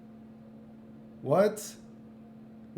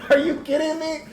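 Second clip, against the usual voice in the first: incredulous; 12 semitones higher, 6 dB louder than usual. Real, not acted. Exasperated outburst about transgender claim.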